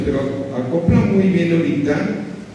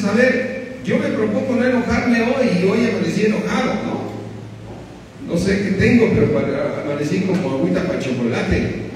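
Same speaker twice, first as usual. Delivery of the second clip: grumpy believer voice; 4 semitones higher than usual. Retold or imitated. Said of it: "Y dices".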